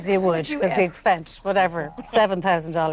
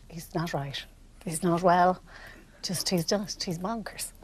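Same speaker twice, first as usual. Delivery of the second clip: confiding; 7 dB quieter than usual. Retold or imitated. Liz confiding about mad passenger.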